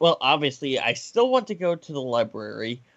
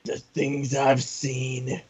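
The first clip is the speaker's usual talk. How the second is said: battle-worn veteran; much slower than usual. Acted. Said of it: "sound like a battle-worn veteran".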